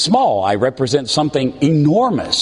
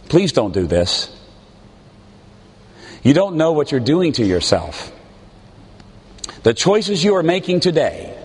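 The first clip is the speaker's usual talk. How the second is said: pleading parent. Retold or imitated. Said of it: "We begin to beg them".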